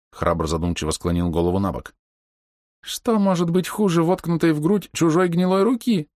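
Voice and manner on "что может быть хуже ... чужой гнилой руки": high wailing lament; sobbing out. A narrator's reading. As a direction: wail it in despair. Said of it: "взрыдал док". (с рыданием)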